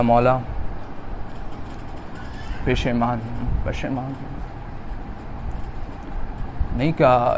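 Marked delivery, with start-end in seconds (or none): 0.0-4.4 low, soft remorseful voice; hushed repentance. Acted. Hurr confesses to his master, low hushed remorse. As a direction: confess quietly with lowered head.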